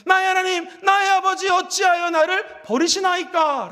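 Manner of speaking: loud, pleading cry of abandonment; anguished cry. Retold or imitated. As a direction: forsaken son crying out loud. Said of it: "눈물을 흘리며 이렇게 소리 지릅니다".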